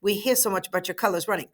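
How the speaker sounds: put-on quick, light Southern accent for Britannia; a hint of Southern lady, said fast. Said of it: "I guess I gave her a Southern accent".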